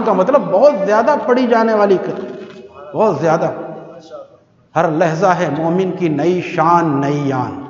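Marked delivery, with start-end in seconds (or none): 4.8-7.6 poetry recital. Acted.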